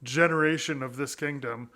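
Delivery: lightly voiced indifferent king; wishy-washy king. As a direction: shrug it off, can't be bothered. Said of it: "the king was, like, wishy-washy about it".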